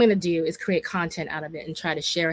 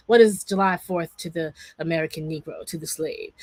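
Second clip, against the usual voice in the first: a light orator's imitation, barely changed from her own voice; a lightly voiced nineteenth-century orator, grave and measured; Frederick Douglass voice; 2 semitones lower than usual. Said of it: "I'm trying to do my Frederick Douglass voice".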